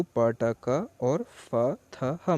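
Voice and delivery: "प, ट, क और फ, थ, ह" as separate speech sounds, not letter names; sounds only. Shown as a demonstration. Teacher showing the sound shift, each sound pronounced separately. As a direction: slowly sound out "प, ट, क और फ, थ, ह" one by one. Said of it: "आप sound सिर्फ पढ़ेंगे".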